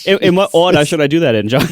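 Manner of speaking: teasing put-on Long Island accent; imitating co-host's accent. Co-host teases John by asking back, mock Long Island accent. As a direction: mimic your co-host's Long Island vowels. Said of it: "you sound so much like me".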